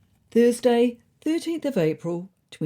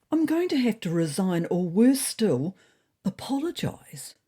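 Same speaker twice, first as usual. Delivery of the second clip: grimly; 4 semitones higher than usual. Acted. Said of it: "said Serafina grimly".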